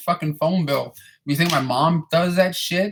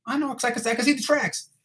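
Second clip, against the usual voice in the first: higher, softer smug reply; smug answer; 8 semitones higher, 4 dB quieter than usual. Retold or imitated. Janitor explaining the wig tracks to his boss, higher and smug. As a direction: explain it smugly, half under the breath. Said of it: "answer to the lady".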